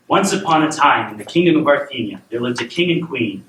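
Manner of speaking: measured storybook reading; storyteller setting up a royal tale; bedtime story narration. A narrator's reading. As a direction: read a fairy tale aloud to a child.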